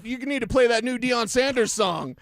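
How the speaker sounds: fake caller voice. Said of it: "except it's his voice".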